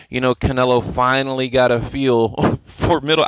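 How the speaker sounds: cracking up mid-sentence; laughing. Real, not acted. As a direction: laugh through the words. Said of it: "I can't say it without laughing".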